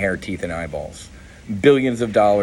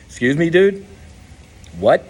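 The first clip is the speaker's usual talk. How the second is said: high, loud disbelief, much higher than his own voice; incredulous retort; 8 semitones higher, 5 dB louder than usual. Retold or imitated. To the lawmaker behind closed doors, a loud, high, incredulous what. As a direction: throw it back in disbelief.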